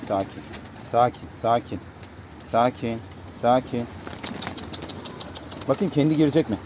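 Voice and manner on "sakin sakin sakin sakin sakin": soft, soothing repeated word; calming the bird. Real, not acted. Keeper soothing a nervous pigeon before the coop, soft and calming. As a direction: settle a nervous pigeon gently.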